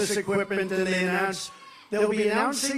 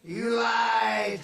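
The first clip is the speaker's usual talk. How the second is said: a mock shout of an accusation; a replayed heckle, pitched up; quoted outburst; 4 semitones higher than usual. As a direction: bark it out the way the man famously did. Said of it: "Remember his famous".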